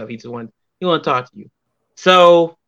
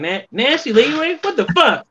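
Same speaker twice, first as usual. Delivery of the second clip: high, laughing what the fuck; imitating a stunned friend; retold disbelief; 10 semitones higher than usual. Guest quotes Joey's stunned greeting, high and laughing. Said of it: "he said, he said".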